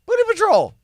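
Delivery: high, loud comic squeal of the phrase; squeaky goofy repeat; mock squeal. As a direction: yelp it out in a silly high voice.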